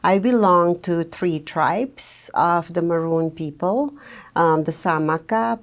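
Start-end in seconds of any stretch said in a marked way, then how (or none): 0.0-3.9 belong said with purposeful weight and a rise; stress on belong. Real, not acted. Guest naming her Maroon tribes, purposeful stress on belong. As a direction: lean into belong as a claim. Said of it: "I say belong purposeful".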